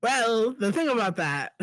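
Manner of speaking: put-on half-hearted try at a Jersey accent; botched Jersey accent. Co-host opening his segment, a botched Jersey accent. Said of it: "It sounded like you were trying to do, like, a Jersey".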